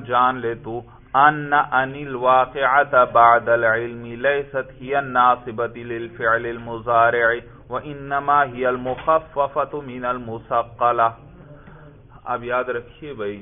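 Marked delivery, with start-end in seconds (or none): 1.2-11.1 text recitation. Shown as a demonstration. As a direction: recite the Arabic rule in a measured reading tone. Reads the Arabic text. (عربی متن کی قراءت)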